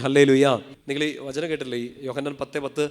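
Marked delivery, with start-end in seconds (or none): 0.0-0.5 loud rallying call to the congregation; powerful, congregation-rousing shout of praise; forceful hallelujah. Shown as a demonstration. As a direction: call it out with strength. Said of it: "ശക്തിയോടെ പറഞ്ഞേ".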